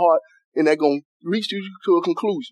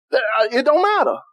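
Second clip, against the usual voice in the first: preaching shout; 4 semitones higher than usual. Real, not acted. Preacher shouting that it don't matter to the church. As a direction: cry the refrain out to the church.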